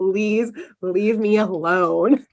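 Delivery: slow, drawn-out, tired; weary plea. Retold or imitated. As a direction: drag it out like someone at the end of his rope. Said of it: "He's like".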